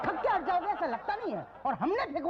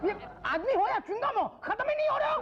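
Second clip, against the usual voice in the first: high-pitched exasperated outburst; 8 semitones higher than usual. Acted. Clerk fed up with a clinging applicant, exasperated. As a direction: let the pitch climb as patience runs out.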